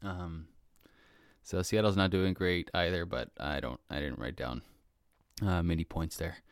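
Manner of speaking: words around sips of tea; talking between sips; while sipping a drink. Real, not acted. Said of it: "Excuse me while I drink this tea".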